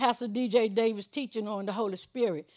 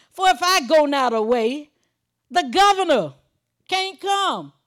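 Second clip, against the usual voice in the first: forceful, raised scripture proclamation; preaching; 4 semitones higher, 5 dB louder than usual. Real, not acted. Preacher reading Jesus's words on going away, forceful preaching. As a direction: punch out the verse to the congregation.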